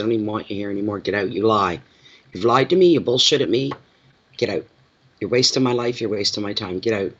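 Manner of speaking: measured, restrained kick-out; controlled dismissal. Retold or imitated. Woman dumping a liar, in control. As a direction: throw them out while staying very much in control. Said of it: "when you keep that tone of voice and you're very much in control".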